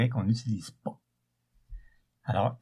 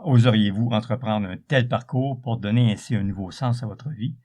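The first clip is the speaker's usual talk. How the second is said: louder dramatic book blurb read; back cover reading; 3 dB louder than usual. Acted.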